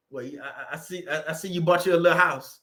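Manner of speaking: hushed, sneering put-down of the house; mock sneer. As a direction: drip fake politeness at first, then sneer. Mocking guest sneering at house.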